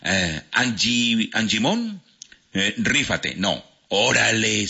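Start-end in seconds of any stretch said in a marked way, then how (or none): 3.9-4.7 "órale" lento, con la O inicial marcada; acento en la O. Shown as a demonstration. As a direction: corrige alargando "órale" desde la O. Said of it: "se dice órale". ("órale" pausado y acentuado al inicio)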